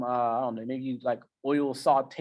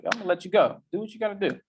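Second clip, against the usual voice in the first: relaxed brain, voiced higher; your brain waving you off, content; easygoing inner voice letting you go; brain talking; 6 semitones higher, faster than usual. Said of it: "And so your brain, like".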